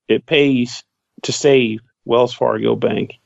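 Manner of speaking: slow, announcer-style bank slogan, tongue in cheek; mock ad read. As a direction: read it like a tacked-on sponsor line. Jokey fake bank ad tag.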